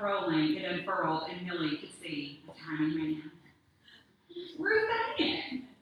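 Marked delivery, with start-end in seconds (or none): 4.6-5.7 high, loud call. Acted. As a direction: call her name across the room. Ghost calls out her name.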